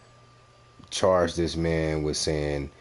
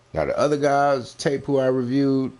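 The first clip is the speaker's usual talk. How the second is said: raised rant; 9 semitones higher, 4 dB louder than usual. Real, not acted. Mocking the other reviewers.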